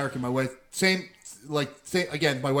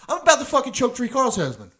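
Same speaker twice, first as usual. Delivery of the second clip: higher-pitched, worked-up threat; retold angry outburst; 8 semitones higher, 4 dB louder than usual. Uncle fed up at dealership tells nephew, retold angry outburst. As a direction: retell it as a raised-voice rant.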